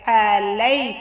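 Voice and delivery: "लई" light, easing into the y; soft "lai". Shown as a demonstration. Teacher shows the soft letter ya, gentle "आ लई". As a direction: say "आ लई" with a thin l and gentle glide. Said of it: "नरम लहजे से".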